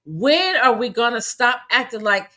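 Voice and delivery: ordinary talk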